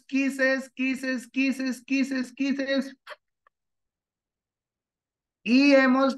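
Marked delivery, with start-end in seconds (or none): 0.0-3.0 high, playful sing-song; sing-song kisses. Real, not acted. Teacher sending kisses to her students, high sing-song. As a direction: blow the class kisses in a lilting chant.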